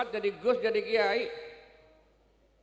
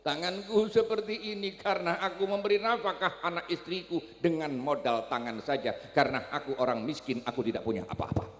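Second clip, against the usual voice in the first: tearful plea; 6 semitones lower than usual. Acted. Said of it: "Dengan linangan air mata terisak dia berkata".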